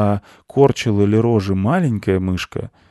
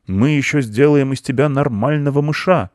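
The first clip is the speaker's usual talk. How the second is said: raised uncle voice, pompous vow; proclaiming; 7 semitones higher, 4 dB louder than usual. A narrator's reading. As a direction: declare it as a grand promise. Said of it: "провозгласил дядя".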